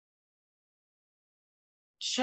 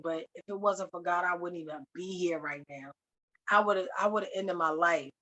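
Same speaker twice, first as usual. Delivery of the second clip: subdued, lower retelling of his grief; imitating tearful speech; 3 semitones lower, 5 dB quieter than usual. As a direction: drop it low and heavy, no sobbing. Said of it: "he starts crying again".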